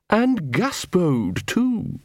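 high, slow, sneering poodle; menacing lofty little dog; snooty poodle voice. A narrator's reading. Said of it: "said the poodle".

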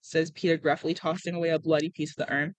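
steady storytelling with lightly voiced dialogue; story narration. A narrator's reading. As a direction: read it like an audiobook, lightly acted. Reads a novel aloud.

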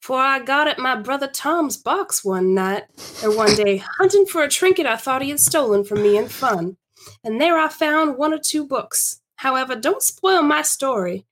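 measured period-story reading; story narration. Acted. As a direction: read it aloud as a storyteller. Reads Laura's story.

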